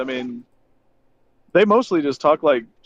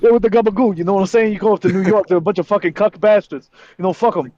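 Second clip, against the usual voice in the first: wiseguy going on about gabagool; New York Italian accent; 2 semitones higher than usual. Acted. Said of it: "What is fucking gabagoo".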